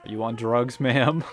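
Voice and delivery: incredulous shout. Real, not acted. Player asks armed officer.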